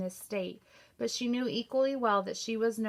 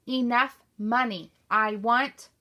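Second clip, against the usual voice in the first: louder anguished shout; 2 semitones higher, 7 dB louder than usual. A narrator's reading. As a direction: yell it out while pounding the tree. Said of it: "he pounded his fist against the tree trunk".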